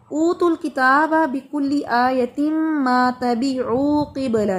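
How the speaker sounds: very slow, drawn-out Quran recitation; tajweed recitation. Shown as a demonstration. Teacher showing where to restart the verse, slow recitation. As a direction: recite it slowly from ऊतुल to किबला. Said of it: "ऊतुल किताब से".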